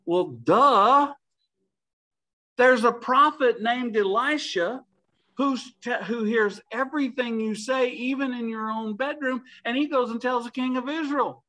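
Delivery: duh. Retold or imitated. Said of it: "I'm gonna paraphrase this".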